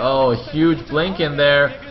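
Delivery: rising esports caster hype; excited play-by-play, building. Real, not acted. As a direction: climb to a high, loud game call. Live call of a big fight.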